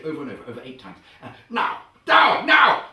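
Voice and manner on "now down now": high, loud drill-sergeant bark; shouted command. Acted. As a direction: bark it like an order. Barking order to the class.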